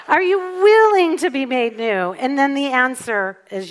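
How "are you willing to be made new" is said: high, loud appeal; rousing challenge. Real, not acted. Speaker asks the congregation again, loud rousing challenge. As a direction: ring the question out to the whole room.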